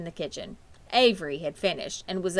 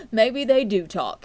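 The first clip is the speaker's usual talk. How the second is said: amused; 3 semitones higher, 8 dB louder, slower than usual. A narrator's reading. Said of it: "Mister Arable chuckled".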